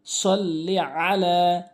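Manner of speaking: slow সল্লি আলা with throaty ain. Shown as a demonstration. Teacher correcting the hamza. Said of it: "আলা বলে".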